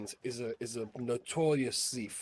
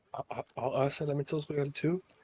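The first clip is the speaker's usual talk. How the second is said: whispering in a put-on character voice. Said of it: "I whispered to, to Marta".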